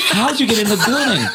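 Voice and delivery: high, quick and laughing. Retold or imitated. Caller repeating his question to Jesus, laughing.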